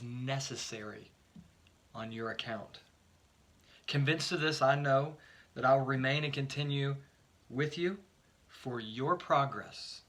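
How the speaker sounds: emphatic Bible reading, phrase by phrase; scripture reading. Acted. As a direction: read scripture out to a congregation, letting phrase endings settle. Reads scripture aloud.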